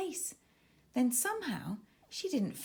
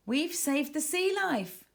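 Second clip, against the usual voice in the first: cheering; 5 semitones higher than usual. Acted. Aisha cheering to her friends after the rescue, excited. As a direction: cheer the win to the team. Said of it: "cheered Aisha".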